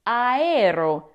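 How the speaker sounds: aero drawn out as a-e-ro; prefix demonstration. Shown as a demonstration. Teacher showing the Greek prefix, aero slowly as a-e-ro. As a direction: stretch each vowel of aero. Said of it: "the Greek prefix aero".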